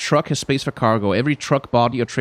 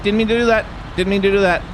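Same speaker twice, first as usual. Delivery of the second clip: very high, repeated yelped apologies, easing down slightly; high-pitched, comically flustered apologising; squeaky apology; 14 semitones higher than usual. Pretend. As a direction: squeal sorry over and over after a crash. Apologising after crashing into something.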